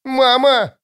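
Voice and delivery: put-on high childlike wail; high-pitched distressed cry; bursting into tears. A narrator's reading. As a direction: wail for mother. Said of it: "разревелась Нюна".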